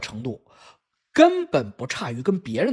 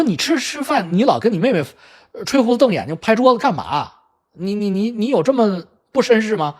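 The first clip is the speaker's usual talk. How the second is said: retold exasperated telling-off, pitched up in places; parental scolding; 4 semitones higher than usual. Father scolds his eldest for bullying his sister, exasperated. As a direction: tell off the child with stammered reproach. 父亲训老大欺负妹妹.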